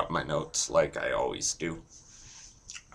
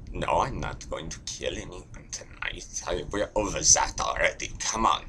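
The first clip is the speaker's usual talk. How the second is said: softer German-accented protest; 3 dB quieter than usual. Shown as a demonstration. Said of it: "that's the best I can do".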